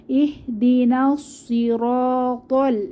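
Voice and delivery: slow recitation with heavy স and ত; tajweed reading; Quran recitation. Shown as a demonstration. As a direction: chant slowly. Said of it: "রতে এক আলিফ টান হবে".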